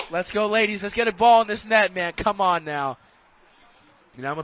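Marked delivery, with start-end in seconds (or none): 0.1-3.0 cheering on. Real, not acted. Cheering team toward a goal.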